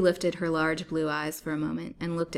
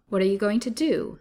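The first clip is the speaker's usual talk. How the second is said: higher, louder frightened question; quivering fear; 5 semitones higher, 7 dB louder than usual. A narrator's reading. Captive asks her captor's intent, quivering. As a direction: ask in mild, mounting alarm. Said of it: "in a quivering voice".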